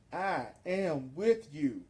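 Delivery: slow, solemn divine assurance; Jesus. Acted. Speaking as Jesus to the followers, slow solemn assurance. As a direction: give each word room, as a promise. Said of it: "Jesus says".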